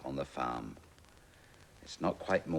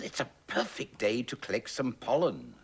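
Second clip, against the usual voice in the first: higher, louder busy bee voice; 9 semitones higher, 7 dB louder than usual. Acted. Bee off to collect pollen, higher and louder. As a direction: chirp it as a happy bee. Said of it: "thought the bee".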